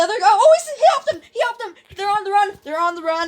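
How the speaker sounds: high excited shout. Real, not acted. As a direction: call it out thrilled. Excited game call-out.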